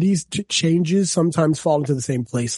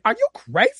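high-pitched incredulous movie-hero quote; Wesley Snipes in Blade; 11 semitones higher than usual. Retold or imitated. Godzilla to the men shooting him, imitated Blade hero. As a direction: throw it out high, in mock disbelief. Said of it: "he did the Wesley Snipes from Blade".

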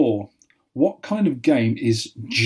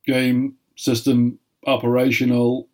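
lightly imitated robot, word by word; a hint of a machine announcement, evenly spaced; robotic voice. Quizmaster quoting a game's boot-up speech, lightly robotic. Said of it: "in a really robotic voice".

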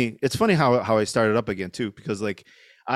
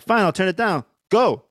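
mocking dismissal; 6 semitones higher, 4 dB louder than usual. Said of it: "And I was like".

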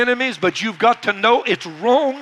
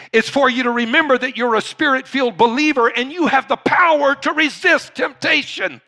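raised pitch, building to an exhortation; rousing preaching; 7 semitones higher, 3 dB louder than usual. Real, not acted. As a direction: lift the congregation with conviction. Preaching rises in force.

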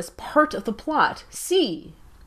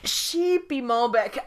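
laughing; 3 semitones higher, slower than usual. Real, not acted. Repeats wine name laughing.

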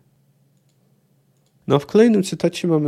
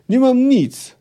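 anguished cry; 10 semitones higher, 5 dB louder, slower than usual. Acted. Yennefer in pain, refusing sacrifice.

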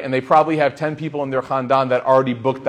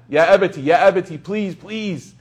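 begging; 2 semitones higher than usual. Retold or imitated. Son begging his dad, imitated pleading. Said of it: "he's begging his dad".

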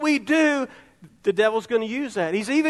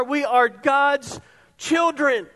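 slow preaching shout; much slower than usual. Real, not acted. Preacher proclaims to church.

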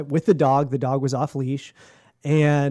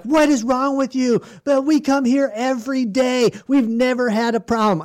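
higher-pitched mock outrage; imitated indignant woman; 7 semitones higher than usual. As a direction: scold like an affronted dog owner. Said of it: "And she's like".

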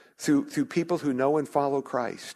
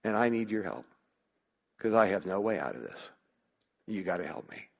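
sample pleading prayer. Shown as a demonstration. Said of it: "so freeing to say".

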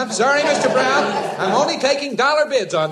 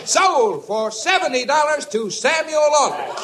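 auctioneer's shout; slower than usual. Acted. Auctioneer closing the sale.

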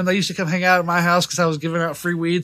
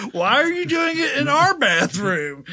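slow, higher, words squeezed through clenched teeth; through gritted teeth; 9 semitones higher, slower than usual. Retold or imitated. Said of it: "talking through gritted teeth".

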